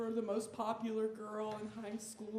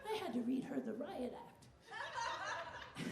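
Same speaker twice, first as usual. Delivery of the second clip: grandma voice; 5 semitones higher, 7 dB quieter, slower than usual. Retold or imitated. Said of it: "she'd be like".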